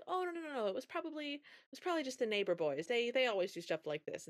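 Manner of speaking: high, rushed denials; flustered dad. Retold or imitated. Dad jumping in to protect Cindy, high nervous rush. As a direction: hurry to blame the neighbor boys. Dad hastily covers for daughter.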